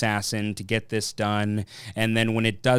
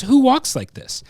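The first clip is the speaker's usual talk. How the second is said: much higher and louder, laughing through it; retelling the director's rant, laughing incredulity; laughing disbelief; 8 dB louder than usual. Retold or imitated. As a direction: laugh at how absurd it is. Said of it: "He goes".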